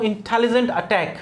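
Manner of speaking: "इंटेलिजेंट अटैक" with the टे stressed in both words; stress on टे sounds. Shown as a demonstration. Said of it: "टे sound है ये stressed है". ("इंटेलिजेंट अटैक" के दोनों शब्दों में टे पर ज़ोर)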